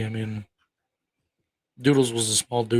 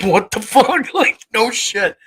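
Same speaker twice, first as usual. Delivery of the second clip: laughing disbelief; 9 semitones higher, 4 dB louder, slower than usual. Real, not acted. Laughing at the absurd story.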